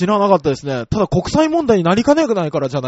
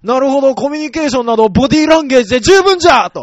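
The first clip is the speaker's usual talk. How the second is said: put-on creaky wise old man; 4 semitones higher, 6 dB louder, faster than usual. Mock old sage pronouncement.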